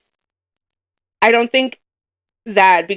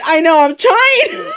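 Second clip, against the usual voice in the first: high tearful laugh-wail; trying not to cry; 13 semitones higher, 3 dB louder, slower than usual. Real, not acted. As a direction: voice climbing as you fight back tears. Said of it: "I'm trying not to cry".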